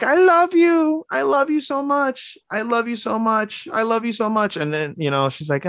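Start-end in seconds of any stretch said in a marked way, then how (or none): 0.0-4.6 hammed-up outpouring of love, squeaking high; imitated gushing declaration. Man to girl just out of coma, high gushing imitation.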